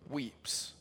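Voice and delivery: sudden drop to soft; hushed. Real, not acted. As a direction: let weeps fall away. Drop after climax.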